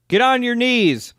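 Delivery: hammed-up cop command; mock cop shout. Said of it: "then they shout in typical cop fashion".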